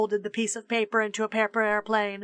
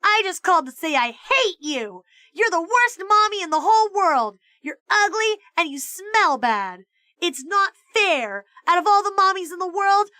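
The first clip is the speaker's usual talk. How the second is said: put-on high, loud bratty child voice; nasty kid on the phone; 7 semitones higher, 4 dB louder than usual. A narrator's reading. Child insulting his mother over the phone, high and loud. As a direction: spit it out like a spiteful little kid.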